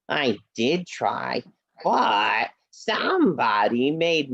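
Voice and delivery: low, mopey horse puppet voice; a sad little horse who can't press the button; sulky puppet horse. Acted. Puppet Henry voice.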